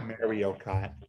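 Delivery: put-on Jersey-accented MARIO KART, 'Mario' opening like 'marry'; imitated Jersey accent. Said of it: "that's how your people would say it".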